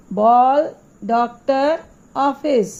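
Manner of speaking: बॉल, डॉक्टर, ऑफिस with an open ऑ, between आ and ओ; ऑ sound demo. Shown as a demonstration. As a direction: stretch the rounded ऑ in बॉल and डॉक्टर. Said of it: "अब ये अ क्या है?". (बॉल, डॉक्टर, ऑफिस में खुला ऑ)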